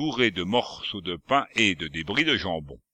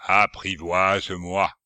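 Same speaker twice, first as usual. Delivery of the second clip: cavernous voice; 3 dB louder than usual. Acted. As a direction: speak from a dark cave. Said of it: "d'une voix caverneuse".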